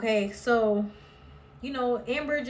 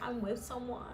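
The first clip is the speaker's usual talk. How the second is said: softer unvoiced whisper of a confession; mock whisper; 8 dB quieter than usual. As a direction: whisper it like a secret. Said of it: "you know, like".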